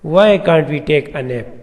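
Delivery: very slow, each word separated; slow example read. Shown as a demonstration. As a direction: read the question sample slowly for the class. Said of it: "example ہے".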